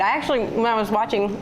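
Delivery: talking through a mouthful of peanuts; mouth full. Real, not acted. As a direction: speak around a bite of food. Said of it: "don't talk with your mouth full".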